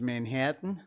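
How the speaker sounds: lightly put-on Manhattan accent. Shown as a demonstration. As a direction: say it like a Manhattan local. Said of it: "fifty New York accents".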